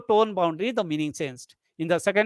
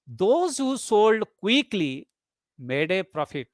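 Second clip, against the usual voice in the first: quickly stressed, then a pause before made a profit; tone boundary after quickly; slower than usual. Shown as a demonstration. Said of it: "here quickly is bold".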